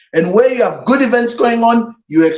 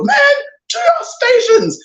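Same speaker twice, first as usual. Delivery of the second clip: commanding order. Retold or imitated. Commander rallying the soldiers after the panic, ringing command. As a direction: bark the order to rally the men. Commander retakes control in Gondor.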